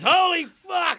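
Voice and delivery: high, loud, stunned exclamation; acted astonishment. Doctor reacting to the patient, loud mock astonishment. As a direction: imitate a floored doctor. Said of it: "And he goes".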